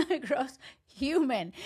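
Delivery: giggling disgust; laughing insult. Real, not acted. Laughs while insulting Chris.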